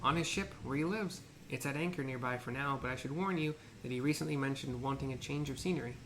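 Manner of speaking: ancient rasping undead king. Acted. Voices pompous merchant.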